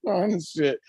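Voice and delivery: high, laughing disbelief; stunned disbelief. Retold or imitated. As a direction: laugh through the shock. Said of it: "but, like, like".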